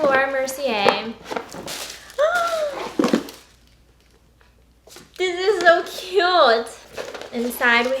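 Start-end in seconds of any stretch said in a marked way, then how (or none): 1.2-3.3 high-pitched gasp of delight. Real, not acted. Vlogger opening a makeup package, delighted gasp. 5.2-6.7 high, loud, drawn-out delight; excited gushing. Real, not acted. Vlogger gushing over Laura Mercier package, excited.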